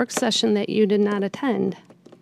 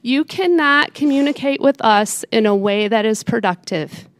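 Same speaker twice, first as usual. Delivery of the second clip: calm turning angry; slower than usual. Real, not acted. Mayor scolding commissioner.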